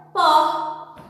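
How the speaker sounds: "Por" punched out loud and long; strongest syllable. Shown as a demonstration. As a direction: belt out "Por" as the stressed syllable. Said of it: "Qual foi a sílaba mais forte". ("Por" forte e prolongado)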